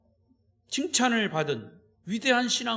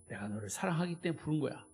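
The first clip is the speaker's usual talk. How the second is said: much softer, fast, tender murmur; said with love; 5 semitones lower, 11 dB quieter, faster than usual. Shown as a demonstration. Preacher contrasting love with no reason, softly tender. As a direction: hush it out like a loving secret. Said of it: "하는 거하고".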